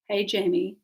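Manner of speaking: put-on English-tinged LA accent; Anglo Los Angeles accent. Sophia greets Jamie at her party, Anglo LA accent. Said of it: "in her Anglo Los Angeles accent".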